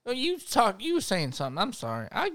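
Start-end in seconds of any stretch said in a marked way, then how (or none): 1.6-2.3 faint, slow, trailing voice. Acted. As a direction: fade out as if passing out. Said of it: "I'm fainting".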